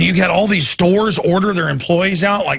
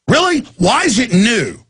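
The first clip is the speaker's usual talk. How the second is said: incredulous; 5 semitones higher than usual. Real, not acted. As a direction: fire it back in sarcastic disbelief. Sarcastic reply to a caller's view.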